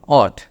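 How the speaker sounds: "what" said short as "ot", low and falling; model pronunciation. Shown as a demonstration. Teacher showing British "what", low and short. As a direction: clip "what" to "ot", no w sound. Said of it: "এর উচ্চারণটা হবে এরকম".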